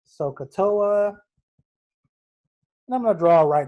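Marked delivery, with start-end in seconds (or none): 0.1-1.2 sohcahtoa spelled out slowly, syllable by syllable; drawn out slowly. Shown as a demonstration. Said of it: "I'm gonna write sohcahtoa".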